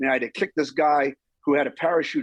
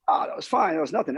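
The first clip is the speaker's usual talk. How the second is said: brushing it off; 2 semitones higher than usual. Retold or imitated. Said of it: "getting ready to say".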